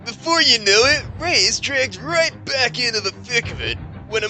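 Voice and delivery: high dramatic trailer narration; movie trailer voice. Pretend. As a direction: sell it like a blockbuster teaser. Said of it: "my best trailer voice".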